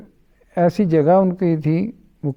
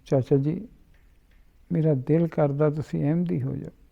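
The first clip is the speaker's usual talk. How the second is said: soft, affectionate child's request, retold; loving plea; 6 dB quieter than usual. Young boy lovingly asks his uncle to join his faith, softly. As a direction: gently imitate a fond young boy asking. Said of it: "بڑے پیار سے مجھے کہنے لگا".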